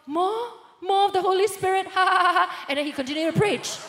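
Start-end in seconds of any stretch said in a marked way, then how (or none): 0.0-2.7 raised, loud preacher's cry into ha-ha; preacher breaking into laughter. Retold or imitated. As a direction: imitate a preacher calling out, then laughing. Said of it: "preaching, and go".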